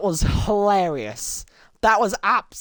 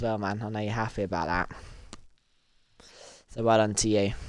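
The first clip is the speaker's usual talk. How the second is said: soft whispered aside; 7 semitones lower, 5 dB quieter, faster than usual. Real, not acted. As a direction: whisper the congratulations. Aside to a friend.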